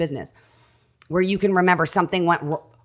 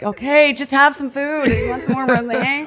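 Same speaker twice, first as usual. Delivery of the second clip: much higher, coaxing voice; comforting friend; 9 semitones higher than usual. Retold or imitated. Friend soothing her sobbing with food and rosé, high and coaxing. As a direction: coax her like a fussing host.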